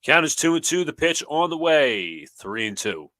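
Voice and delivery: loud, high announcer call, easing down; play-by-play call. Real, not acted. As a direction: stretch out the pitch on its way, then settle.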